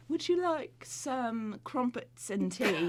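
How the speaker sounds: slow, mock-polite British accent. Shown as a demonstration. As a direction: offer it drawn out in put-on British. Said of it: "British, um".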